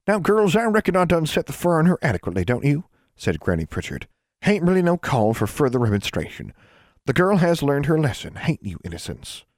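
put-on high old granny calling out a child's full name; stern old granny. A narrator's reading. Great-grandmother catching the snooping girl, high stern granny voice.

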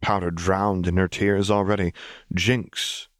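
measured storytelling read; story narration. A narrator's reading. Narrator reading a story to listeners, measured narration. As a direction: read it like the closing pages of a novel.

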